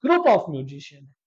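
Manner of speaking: very slow teacher definition; slow dictation. Shown as a demonstration. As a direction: say it slowly so students can write.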